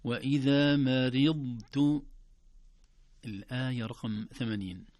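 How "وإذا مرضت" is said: "مرضت" recited slow and loud, holding ض before a separate ت; distinct dad. Shown as a demonstration. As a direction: recite "مرضت" with a held, heavy ض, no bounce. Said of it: "تسمعون صوت الضاد؟". («مرضت» بإظهار الضاد مطبقة دون قلقلة)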